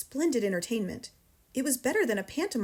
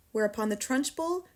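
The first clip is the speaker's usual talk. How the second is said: usual speaking voice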